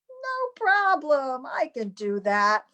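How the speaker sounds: lightly voiced actress taking it all in stride; imitating Amanda. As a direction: actress reassuring the director, high and unhurried. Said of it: "Have to be a Jewish girl".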